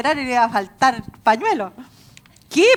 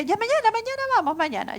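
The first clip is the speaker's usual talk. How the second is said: high, hurried brush-off; putting someone off; 9 semitones higher, faster than usual. Retold or imitated. Young woman stalling the person evangelizing her, hurried mock brush-off. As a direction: rush it out higher, imitating a stalling girl. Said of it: "me daba largona".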